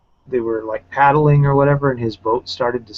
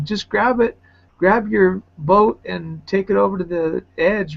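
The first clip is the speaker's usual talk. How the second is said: lightly voiced girl, higher; a hint of the girl coaching him, pitched up; the girl's voice; 8 semitones higher than usual. Retelling girl's instruction.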